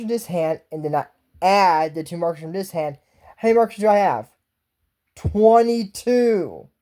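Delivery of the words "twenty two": put-on slow stubborn kid answer. Kid insists on wrong answer.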